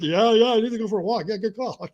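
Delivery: high, hurried mock agreement; agitated agreement. Worked-up man agreeing with girlfriend, agitated. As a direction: give in while still worked up.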